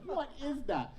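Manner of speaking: high, laughing, startled question; mock surprise. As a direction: squeal it out with a laugh at yourself. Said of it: "I was like".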